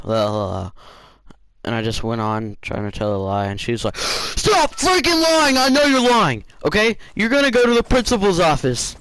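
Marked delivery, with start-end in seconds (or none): 4.0-9.0 very high, loud teacher tirade; imitated scream. Teacher threatening student with principal's office, imitated scream. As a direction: scream at the liar, drawing out the first order.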